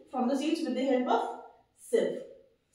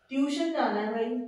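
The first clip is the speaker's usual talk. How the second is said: imitating students. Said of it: "आज से हमको ट्यूशन नहीं जाना है".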